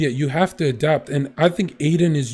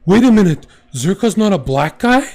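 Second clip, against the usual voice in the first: imitating a surprised chatter; 2 semitones higher, 3 dB louder than usual. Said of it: "One guy said".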